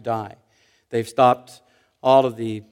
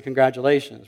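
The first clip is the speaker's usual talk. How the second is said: understated mock praise; sarcastic congratulations; 3 semitones lower than usual. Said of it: "with that tone".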